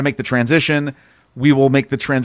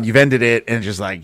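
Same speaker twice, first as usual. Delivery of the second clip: ordinary talk, nothing marked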